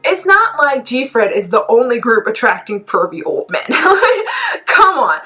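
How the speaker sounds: indignant, climbing high into a laugh; exasperated rebuttal. Real, not acted. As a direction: argue back in scoffing disbelief. Rebutting the podcast's insult.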